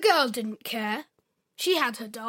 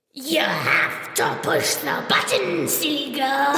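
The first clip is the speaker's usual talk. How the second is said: deadpan doll punchline; too calm creepy doll; 4 dB louder than usual. Acted. Doll speaks.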